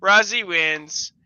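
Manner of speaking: loud, high gloating "Ha ha"; mock triumphant laugh. The speaker gloats at the Discord crowd, loud mock triumph. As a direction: crow it like you just won. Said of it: "And I was like".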